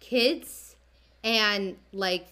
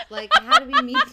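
loud, high question through real laughter; laughing in disbelief; 10 dB louder than usual. Real, not acted. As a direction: crack up while asking. Cracking up over homeless date.

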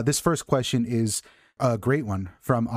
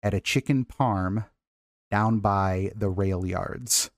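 slow dictation; slower than usual. Shown as a demonstration. Dictates the agreed test sentence.

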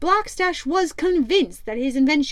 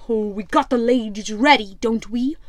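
louder, gruff pirate captain scoffing; Black Stash; 4 dB louder than usual. Acted. Pirate captain mocks the rival ship, loud and scornful. Captain asks first mate.

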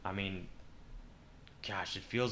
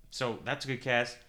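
talking through a yawn; 2 semitones higher, 3 dB louder than usual. Real, not acted. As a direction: yawn while speaking. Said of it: "just yawned".

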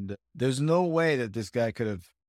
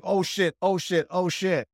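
panicked; 4 semitones higher, slower than usual. Retold or imitated. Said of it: "I'm like".

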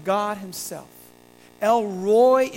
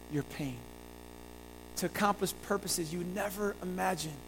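softer, gently lowered voice of comfort; tender reassurance; 3 semitones lower, 8 dB quieter than usual. Acted. God consoling suffering Hagar in her pain, tender and hushed. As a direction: speak God's promise softly and tenderly.

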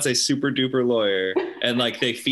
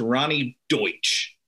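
slow, deliberate commercial self-introduction; Ronnie Deutsch; much slower than usual. Retold or imitated. Imitating a lawyer's commercial, slow hard-hitting name. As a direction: draw out the name like a TV pitch. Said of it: "and she said it like that".

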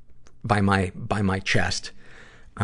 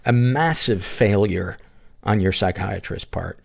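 usual speaking voice

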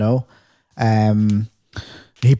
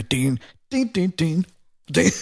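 mimicked horn dings; 5 semitones higher, 5 dB quieter than usual.

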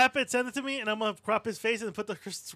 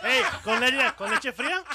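mock street vendor calling out, louder; paletero; 3 semitones higher, 4 dB louder, slower than usual. Ribbing friends with a paletero call, mock hawking. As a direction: call it out like an ice pop seller. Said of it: "Tenemos el paletero".

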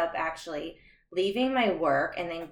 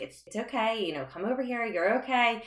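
higher, gentle soothing words; composed reassurance; 5 semitones higher than usual. Retold or imitated. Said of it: "I remember being extremely composed".

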